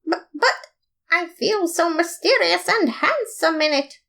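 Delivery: a mock mysterious, handsome plea; stammer, then purr it like a suave hero. Papyrus insisting to Undyne he looks handsome, mock suave. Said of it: "I said mysteriously and handsomely".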